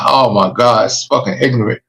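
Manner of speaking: ordinary delivery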